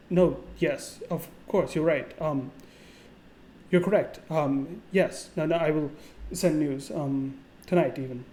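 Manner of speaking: halting, acted fluster with false starts; flustered stuttering. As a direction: stumble through a hurried agreement, pausing on ums.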